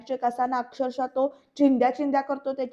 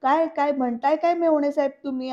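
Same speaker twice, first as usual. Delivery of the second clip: lazy mocking; 5 dB louder than usual. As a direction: sneer at him loudly, unbothered. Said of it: "लोळूनच बोलतोय". (लोळत उपहासाने मोठ्याने बोलणं)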